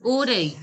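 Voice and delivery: "Orai" said clearly as a model; French word demonstration. Shown as a demonstration. Teacher models for the class, French word demonstration. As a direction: model "Orai", letting the pitch fall at the end. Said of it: "can you pronounce Orai".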